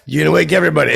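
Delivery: mock shout about waking everyone; retold yell at driver. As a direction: tell him off across the lot. Yelling at honking driver.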